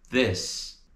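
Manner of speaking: This with a vowel between Brazilian i and e; English i sound. Shown as a demonstration. Teacher demonstrating the vowel in This. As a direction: say This with the short English i. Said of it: "o som do I em inglês vai ter esse som".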